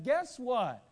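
high, loud, slow sales pitch; fawning Gibeonites. Retold or imitated. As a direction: oversell it like a con man. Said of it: "approached Israel and said".

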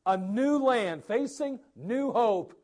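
eager, lifted voice; hopeful Israelites. Retold or imitated. Pastor voicing Israelites hoping for the land, eager. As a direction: sound full of hope about the land. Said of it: "they thought".

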